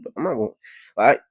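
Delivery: normal talking voice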